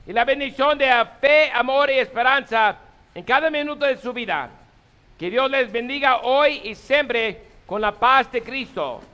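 solemn liturgical blessing; priestly blessing. Acted. Priest gives closing blessing.

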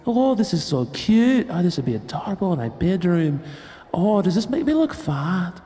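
high mock girly voice; mocking girlfriend voice.

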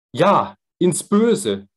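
noch einmal, höher und lauter, sehr langsam gerufen; Ja, ins Böse gedehnt hinausrufen; laut rufend. Acted. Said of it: "rief der Jüngling nochmals". (erneuter Ausruf, hoch, laut und langsam)

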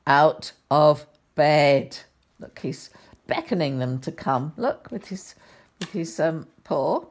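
put-on gentle storybook reading for children; sweet old lady. A narrator's reading. Reads picture book to children.

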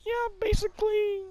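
a hint of a game mascot; Mario-like voice. Real, not acted. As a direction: answer with a touch of cartoon plumber. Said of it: "You sound like Mario".

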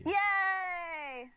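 high, loud, drawn-out cheer; delighted cheer. Real, not acted. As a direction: cheer it out gleefully. Cheering the agreed episode title.

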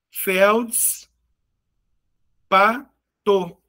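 "Felds, pa, to" in three separate pieces; long pause after "Felds", then "pa", then "to"; syllable by syllable. Shown as a demonstration. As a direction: sound out each syllable of "Felds, pa, to" alone. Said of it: "três sílabas".

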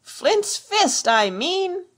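high, loud burst of temper; exasperated pirate outburst; cursing cry. A narrator's reading. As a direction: curse impatiently at the fool. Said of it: "he cried".

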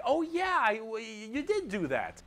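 high-pitched, dim orc voice; gullible orcs. Acted. Other orcs agreeing with the boss, high gullible voice. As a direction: play the easily convinced orc mob. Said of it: "all the other orcs are like".

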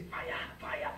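whispered, breathy fire fire; mocking the mindless hot prayer chant. Preacher mocking repetitive prayer, whispered fire chant. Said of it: "I've seen people say".

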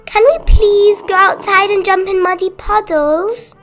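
put-on high, loud little-girl plea; bursting with excitement, high-pitched; excited. A narrator's reading. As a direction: beg eagerly like a small child. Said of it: "asked Peppa excitedly".

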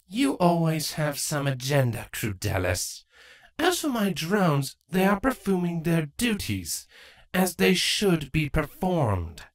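measured, cool reply; cool queen. Acted. Draco voice.

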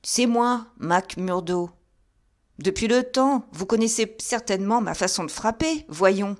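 un Thaddeus nerveux, plus haut et plus fort; Thaddeus, légèrement joué. A narrator's reading. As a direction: jouez un gentleman agité qui s'impatiente. Thaddeus parle au portier. (Thaddeus s'impatiente devant la porte, voix plus haute)

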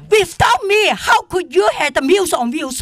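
indignant shout. Real, not acted. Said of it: "I'm so angry".

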